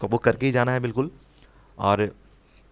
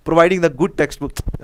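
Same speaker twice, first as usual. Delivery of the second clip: slow dictation; 4 semitones higher, 5 dB louder, much slower than usual. Shown as a demonstration. Teacher reads answer option slowly.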